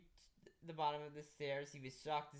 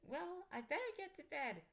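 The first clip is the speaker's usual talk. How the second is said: pitched-up quick exit line; high excuse; 14 semitones higher than usual. Acted. Daughter excuses herself from dad, high and hurried. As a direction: slip away to bed.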